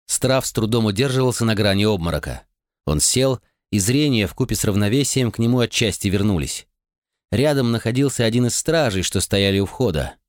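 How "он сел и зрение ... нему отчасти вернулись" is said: ordinary delivery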